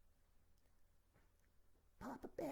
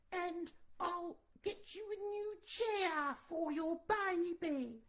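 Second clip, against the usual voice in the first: put-on little girl voice; 3 semitones higher, 3 dB louder than usual. Goldilocks begs Papa Bear to let her go home. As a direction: beg sweetly like a small girl. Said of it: "I'm so good at accents".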